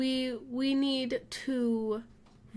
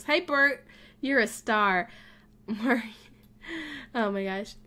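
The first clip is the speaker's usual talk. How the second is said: ordinary talk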